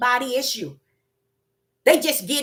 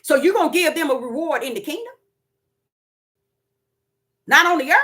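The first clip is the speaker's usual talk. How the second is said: mock challenger; 3 semitones higher, 4 dB louder, faster than usual. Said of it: "Now, watch this here".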